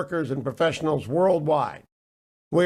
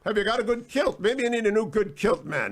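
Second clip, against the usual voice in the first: lightly voiced royal life coach, higher; a hint of a prince giving advice, pitched up; Prince Harry; 3 semitones higher than usual. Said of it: "he'd also say".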